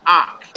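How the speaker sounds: "Ak" as an open "ah"; pronounced Ak. Shown as a demonstration. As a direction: say "Ak" starting straight on the vowel. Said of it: "It's pronounced as an".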